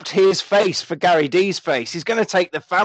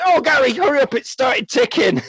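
much higher damsel pleading; mock panicked wife; 8 semitones higher than usual. Wife begs Gary to hurry as bomb ticks, mock panicked. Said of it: "she says".

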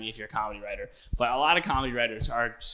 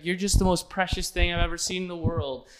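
so sweet; 4 semitones higher than usual. Retold or imitated. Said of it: "so sweet".

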